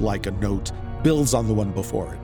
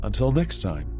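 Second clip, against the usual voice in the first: horror host. Acted. Host's spooky sign-off.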